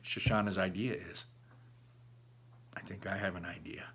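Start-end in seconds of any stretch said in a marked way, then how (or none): 2.8-3.9 conspiratorial whisper. Real, not acted. Reader teases the next twist.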